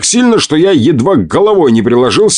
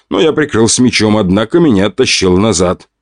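plain reading voice

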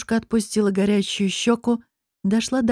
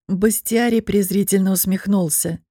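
usual speaking voice

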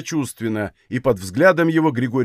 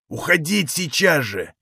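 higher-pitched, heated urging; worked-up urging; 3 semitones higher than usual. Acted. Валет rousing the others to leave at once, heated and agitated. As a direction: urge them on excitedly. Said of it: "возбуждающе горячился Валет".

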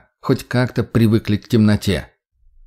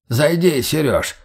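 put-on muffled old man voice; 5 semitones higher, slower than usual. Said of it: "услышал он приглушённый голос изнутри".

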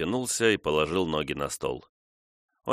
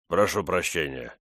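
soothing mumble. A narrator's reading. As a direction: murmur it to calm her down. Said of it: "пробормотал Джек Корнелл успокаивающе".

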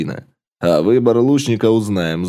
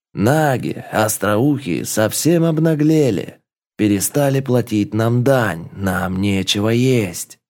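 fiery revolutionary speech; slower than usual. Acted. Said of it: "выступил с пламенной речью".

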